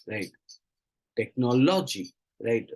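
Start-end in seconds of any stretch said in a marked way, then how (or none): 1.2-2.1 Technology with stress on the third syllable lo; Technology said with the third syllable pushed; wrong stress. Shown as a demonstration. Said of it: "Stressing on the third syllable instead of the second".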